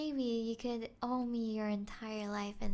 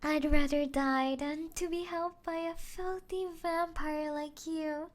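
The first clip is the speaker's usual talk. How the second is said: mock-defiant quote, higher and louder; mocking the human; 4 semitones higher, 4 dB louder than usual. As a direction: parrot the human's brave words to ridicule them. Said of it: "Didn't you say you'd rather die?".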